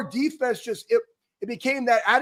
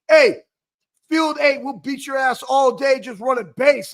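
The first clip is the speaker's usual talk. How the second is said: chirping trash talk; 4 dB louder than usual. Retold or imitated. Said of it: "I'm just like".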